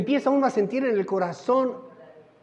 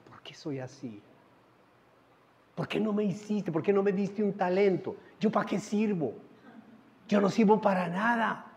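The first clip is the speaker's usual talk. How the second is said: retold prayer; 2 semitones lower, 6 dB quieter than usual. Retold tearful prayer under blankets.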